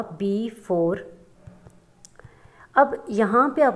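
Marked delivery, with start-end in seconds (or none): 0.0-1.1 "बी फ़ोर" said as two separate beats; split into syllables. Shown as a demonstration. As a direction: stretch "बी", then place "फ़ोर" on its own. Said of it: "ये जो हमारे पास syllable था". ("बी फ़ोर" को दो हिस्सों में अलग करके)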